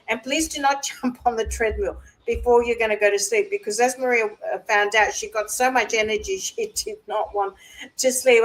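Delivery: real chuckles breaking into the words; laughing. Real, not acted. Speaker joking about her own bedtime treadmill mistake, laughing. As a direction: give the advice while still giggling. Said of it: "that's why I'm laughing".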